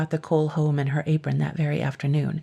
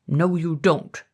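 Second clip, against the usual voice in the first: spluttering; slower than usual. A narrator's reading. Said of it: "said the dragon in a spluttering voice".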